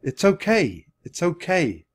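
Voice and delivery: coaxing, lifted voice; soothing. A narrator's reading. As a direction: soothe a jittery animal. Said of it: "trying to speak in a soothing voice".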